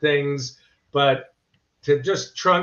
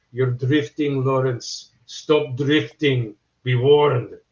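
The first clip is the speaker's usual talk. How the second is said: put-on Middle Eastern-accented voice. Retelling how a film scene was copied to learn an accent: Omar Sharif impression. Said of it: "a good scene with Omar Sharif where he goes like".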